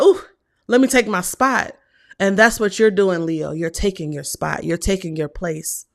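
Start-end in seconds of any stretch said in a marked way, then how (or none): 0.0-1.8 mock Ebony confidence. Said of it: "she was like".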